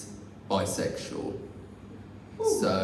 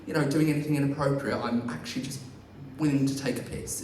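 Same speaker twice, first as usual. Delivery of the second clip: mock apology; 2 semitones higher, faster than usual. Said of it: "you can't say to them".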